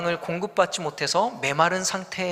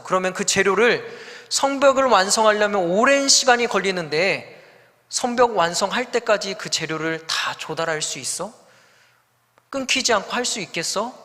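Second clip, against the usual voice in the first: mocking questions; 2 semitones higher than usual. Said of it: "라고 이야기하는 것이죠".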